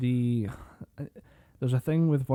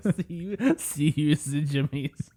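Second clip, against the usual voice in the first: put-on Scottish accent; 3 semitones higher, slower than usual. Repeating Scottish catchphrase, laughing.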